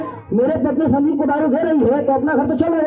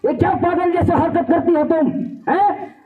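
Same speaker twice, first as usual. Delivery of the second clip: mock angry yell; 3 semitones higher than usual. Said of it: "बेटा चिल्ला के उठता".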